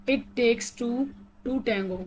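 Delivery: very slow, word by word, evenly spaced; robotic slow reading. Shown as a demonstration. Teacher spelling out an idiom for students, slow and robotic. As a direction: read it out like a careful robot. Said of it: "थोड़ा robotic वे में पढ़ के बता रही हूँ".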